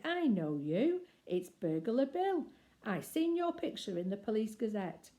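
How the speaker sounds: a lady burglar delighted to recognise Bill; Burglar Betty. Acted. Betty voiced by narrator.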